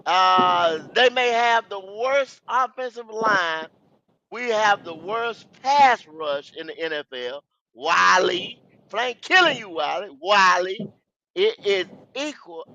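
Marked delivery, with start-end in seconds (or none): 1.0-7.4 over enunciating. Real, not acted. Spelling it out for Wiley.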